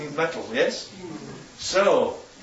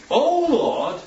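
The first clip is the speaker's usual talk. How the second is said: prophet praying; 5 semitones higher, slower than usual. Acted. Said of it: "Elisha prayed".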